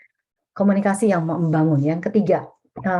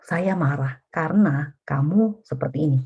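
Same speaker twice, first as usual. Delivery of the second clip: slow, level explanation that starts from saya; calm I-statement. Shown as a demonstration. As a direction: own the anger calmly, slow and even. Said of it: "Kita perlu katakan". (pernyataan tenang dan pelan, mulai dari saya)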